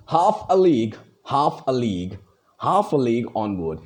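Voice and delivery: "half" stressed, "a league" let fall; stressed-unstressed metre. Shown as a demonstration. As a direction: recite with a beat on "half". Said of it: "red one is the stressed one".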